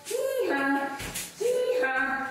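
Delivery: playful donkey hee-haw; a donkey's hee-haw for the kids; donkey bray. Pretend. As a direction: bray like a donkey, pitch jumping. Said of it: "donkey kicks".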